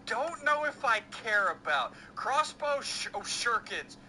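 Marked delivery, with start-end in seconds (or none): 2.8-4.0 "shurikens" tried haltingly, stumbling on sh; unsure pronunciation. Real, not acted. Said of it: "I don't know how to pronounce".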